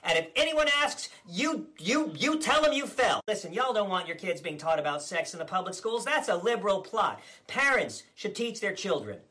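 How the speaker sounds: blustering politician impression, smug and combative; Ron DeSantis parody. Comedian as DeSantis ranting at the press, blustering. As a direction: play the governor as a cocky blowhard.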